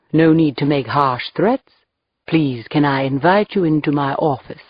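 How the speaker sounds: put-on a light British accent, cheerful and courteous; smooth British host greeting police politely. Skull-capped man welcoming cops into his office, light British accent. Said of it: "saying in a deep British accent".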